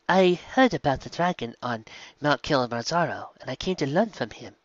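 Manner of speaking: pepper the guest with excited questions; eager young zebra. Acted. Mizungu explains.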